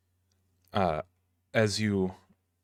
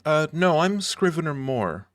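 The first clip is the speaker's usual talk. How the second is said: higher, louder nervous little dwarf; dwarf librarian voice; 7 semitones higher, 6 dB louder than usual. Acted. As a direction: squeak it out like a fussy dwarf.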